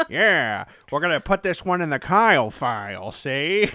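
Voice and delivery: put-on old-time gangster detective voice; noir detective. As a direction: talk like a pulp-novel gumshoe. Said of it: "like you're a pulp detective".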